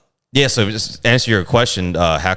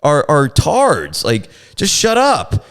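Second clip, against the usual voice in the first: 1 retold scolding; 7 semitones higher, slower than usual. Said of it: "And I was like".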